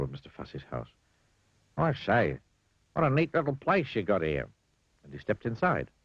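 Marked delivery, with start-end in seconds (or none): 1.8-4.5 high, cheerful grinning voice; grinning Clumsy. Acted. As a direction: beam at him as you introduce yourself. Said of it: "remarked Mister Clumsy".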